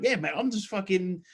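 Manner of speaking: imitating a clueless lifter through laughter; laughing mock quote. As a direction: laugh while aping a confused gym bro. Mocking a gym-goer's reply, laughing.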